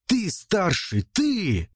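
high, desperate insistence; desperate protest. A narrator's reading. Younger brother refuses to kill, desperate high protest. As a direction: push the task away, voice rising high. Andrei pleads to be spared.

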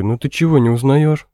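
high and loud ringing call; loud young ringing voice. A narrator's reading. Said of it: "тем же громким голосом". (громкий звенящий голос)

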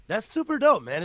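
loud, high hype shout; excited. Real, not acted. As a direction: shout it out, thrilled. Hyped about friend's recognition.

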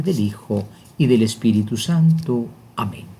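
measured, devout prayer voice. Acted. Bishop prays with listeners before the Gospel, devout prayer. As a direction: lead the faithful in a prayer for the Holy Spirit.

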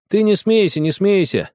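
put-on high, firm boyish reproach; stern warning. A narrator's reading. Boy sternly telling the girl not to laugh. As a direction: say it strictly, not joking. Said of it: "строго сказал ей тогда Генка".

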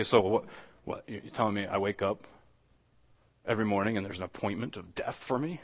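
low, soft, gloomy questioning; depressed objector. Acted. Listener reacting to an appointment with death, depressed questioning. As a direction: voice a listener dejectedly taking in bad news. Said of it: "not gonna put it that depressingly".

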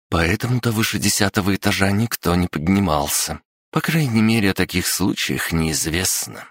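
put-on determined girl before the tower; young woman voice. Liara voiced by narrator. (голос девушки)

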